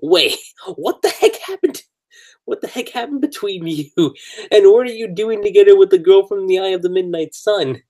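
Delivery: mock freaking out; imitated freak-out. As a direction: act out someone demanding answers in a mild panic. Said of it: "freaking out about this".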